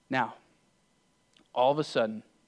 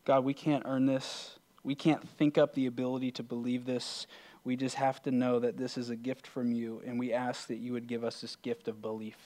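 prayer. Real, not acted. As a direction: pray earnestly, leaving long pauses between phrases. Leads a closing prayer.

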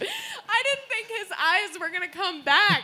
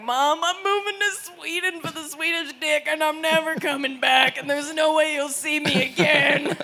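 mock-defiant goodbye, building louder; dramatic farewell; 3 dB louder than usual. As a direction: announce a grand exit to mom. Dramatic farewell to her mother.

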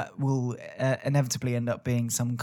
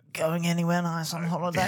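chatty small talk; 3 semitones higher than usual. Acted. Passenger imagined making small talk with a taxi driver, mock chatty. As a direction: make mock polite chit-chat. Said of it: "you were just looking at him going".

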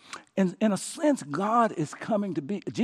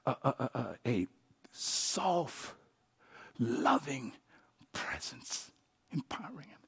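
softer, fading to a breath; soft hush; 6 semitones lower, 9 dB quieter than usual. Shown as a demonstration. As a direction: drift down to a whisper. Describes soft loving presence.

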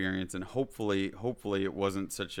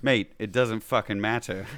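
put-on a lazy, half-hearted stab at a British accent, a bit louder; 6 dB louder than usual. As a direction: toss it off in a terrible British accent. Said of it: "That was a terrible British accent".

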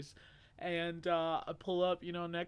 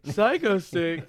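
slow, disbelieving echo; surprised; 6 dB louder, much slower than usual. Real, not acted. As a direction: stretch it out in disbelief. Incredulous echo of band name.

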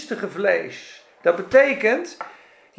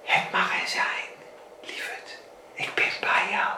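soft loving whisper from God; hushed reassuring voice; tender whisper; 8 dB quieter than usual. Acted. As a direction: whisper it like comforting a child. God speaking tenderly to believer.

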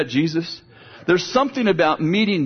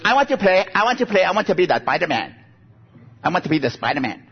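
put-on little girl pleading; 3 semitones higher, faster than usual. Little granddaughter begs to play.

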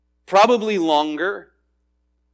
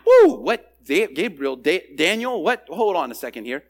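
startled stammer. Acted. Zechariah startled by Gabriel's name.

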